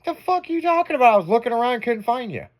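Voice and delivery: indignant retort. Retold or imitated. Telling his buddy he never saw him, high and incredulous. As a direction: fire back, high and disbelieving. Retold reply to accusation.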